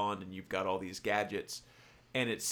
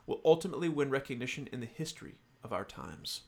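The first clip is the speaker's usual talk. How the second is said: higher-pitched formal villain monologue; Mister Big; 4 semitones higher than usual. Acted. Host finishes the villain's speech to Bond, lightly acted villain. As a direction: carry the grand speech through to its close. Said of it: "this is Mister Big speaking, the villain".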